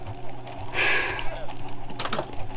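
long, soft, voiceless exhale; weary gamer sigh; long frustrated sigh. Real, not acted. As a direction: breathe out slowly in exasperation. Deflated after failing.

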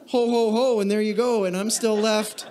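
hammed-up holiday cheer with a laugh; mock jolly. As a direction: poke fun at empty Santa cheer. Mocking shallow holiday cheer.

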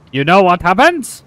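angry gingerbread man. Pretend. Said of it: "Very, very angry".

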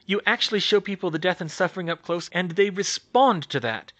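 smug. Acted. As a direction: savour the plan. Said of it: "she said smugly".

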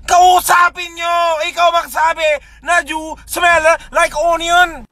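exasperated shout. Real, not acted. Challenging the commenters in an exasperated shout. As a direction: throw the challenge back at them.

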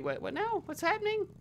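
high, bewildered what now; genuinely thrown by the chat; real surprise, voice jumping high; startled confusion. Real, not acted. Sudden confusing chat message.

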